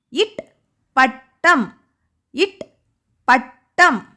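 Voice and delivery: இட், பட்டம் drawn out slowly with a pause between; teacher slowly linking a sound to a word for children; slow phonics model. Shown as a demonstration. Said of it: "எந்த வார்த்தையில இட்டு வருது?".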